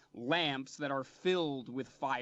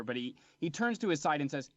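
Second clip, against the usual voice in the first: normal talking voice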